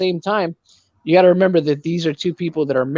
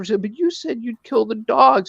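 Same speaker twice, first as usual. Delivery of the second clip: mock sulky, sad little pouty voice, pitched up; 6 semitones higher than usual. Retelling what she said to him, in a put-on pouty, sad voice. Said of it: "pouty, just you know, just sad voice".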